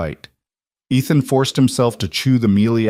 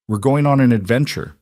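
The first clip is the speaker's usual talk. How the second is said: forced brightness; 4 semitones higher than usual. Acted. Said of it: "Ethan forced brightness into his voice, made it sound fun".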